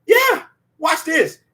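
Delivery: drawn-out hype shout; hyped-up yell to the room; excited shout. Real, not acted. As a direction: call it out big and slow. Hype call to co-host.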